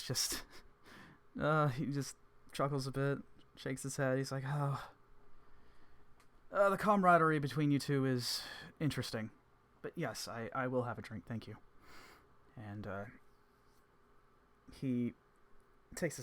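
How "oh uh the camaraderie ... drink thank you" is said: Evans voice. Acted. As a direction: chuckle through the remark.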